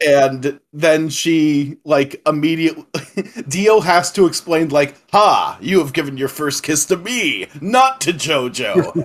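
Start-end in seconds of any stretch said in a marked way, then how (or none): 5.1-9.1 lightly voiced Dio, pompous and stilted; a touch of haughty villain gloating; stiff awkward speech. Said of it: "this very stilted dialogue".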